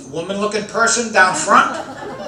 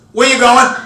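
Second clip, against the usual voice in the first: suspicious wife; 6 semitones higher, 5 dB louder than usual. Retold or imitated. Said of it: "she goes".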